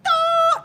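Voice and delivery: high, loud imitated crowd scream; loud high-pitched shriek of a crowd. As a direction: squeal like a screaming fan. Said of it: "this screaming in the crowd".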